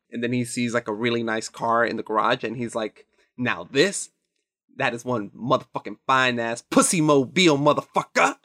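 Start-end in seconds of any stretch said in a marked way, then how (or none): 3.4-8.4 crude excited boast. Retold or imitated. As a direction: brag about the car, then shout Damn. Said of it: "And he says it like that".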